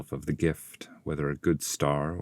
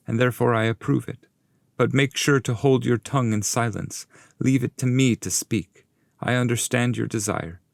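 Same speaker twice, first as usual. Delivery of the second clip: raised, approving then cautioning voice; Virgil the guide; 6 semitones higher than usual. Acted. Master approving the request and warning Dante to be silent. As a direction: grant it, then warn him firmly.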